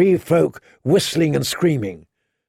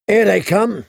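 hoarse, raised warning; 7 semitones higher, 3 dB louder than usual. A narrator's reading. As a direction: rasp out the warning. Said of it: "said someone in a hoarse voice".

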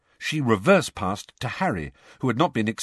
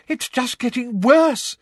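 thickly; 14 semitones higher, 6 dB louder, slower than usual. Acted. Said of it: "said Katie thickly".

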